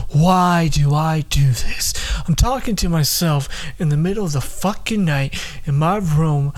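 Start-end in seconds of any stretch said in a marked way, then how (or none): 0.1-1.9 slow unvoiced whisper, drawn out; whispered self-question. Alone at night, asking himself why, whispered. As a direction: whisper it to yourself in the dark. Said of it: "Just be like".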